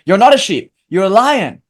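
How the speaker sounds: firm guru lion. Acted. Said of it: "he said".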